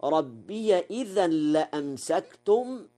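ربي joined on as "rabbiya"; fatha on the ya. Shown as a demonstration. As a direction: open the final ya of ربي into إذا. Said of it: "بفتح الياء وصلا".

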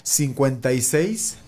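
slow repeat with long gaps between groups; slow dictation. Real, not acted. Host repeating a phone number for listeners, slow dictation. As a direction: spell the number out unhurriedly, group by group. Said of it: "lo voy a decir, eh, despacito".

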